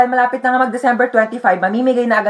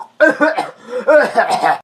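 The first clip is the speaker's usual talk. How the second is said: put-on sickly coughing fit; fake cough. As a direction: cough to fake being sick. Feigns illness to skip school. (pekeng ubo)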